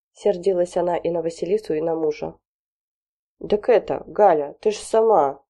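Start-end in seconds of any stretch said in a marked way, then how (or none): 3.5-5.4 flustered husband. Acted. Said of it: "терялся Ладов".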